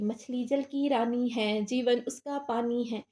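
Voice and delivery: put-on slow, measured children's rhyme; drawn-out lines of a nursery poem; poem recitation. Shown as a demonstration. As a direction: recite it slowly like a schoolroom verse. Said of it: "कविता तो बोली होगी".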